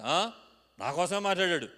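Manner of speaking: loud, haughty retort; cocky, indignant tone; arrogant. Shown as a demonstration. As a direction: say it with puffed-up pride. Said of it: "పొగరబోత్తనంగా మాట్లాడొచ్చు".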